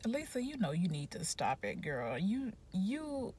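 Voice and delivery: soft, breathless whisper to herself; whispered self-scolding. Retold or imitated. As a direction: hush it like an inner voice telling yourself off. Scolding herself in her head.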